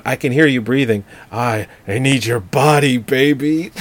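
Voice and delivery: slow creepy phone breather; whisper-close sleazy caller; slasher killer. Retold or imitated. Repeating the pervert phone line.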